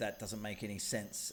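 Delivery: ordinary talk, nothing marked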